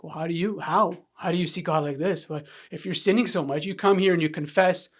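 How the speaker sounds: retold heated challenge, building in force; mildly angry, confrontational grilling; arguing angrily. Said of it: "I would argue with the guys".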